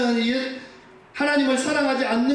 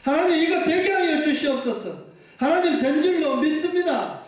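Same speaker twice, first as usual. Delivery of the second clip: higher, confident bold petition; bold prayer; 5 semitones higher than usual. Shown as a demonstration. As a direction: pray with nerve and certainty. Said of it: "배짱으로 나가라는 거예요". (높고 당당한 배짱 기도)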